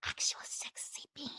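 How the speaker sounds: hushed, mock-seductive whisper; playful sultry whisper; sexy whisper. Shown as a demonstration. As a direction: whisper it like you're being sexy. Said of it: "go like a little bit of a".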